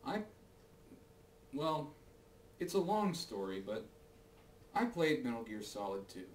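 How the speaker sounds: muffled inside a cardboard box; talking with a box on your head; box over head. Real, not acted. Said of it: "Why is this box on my head?".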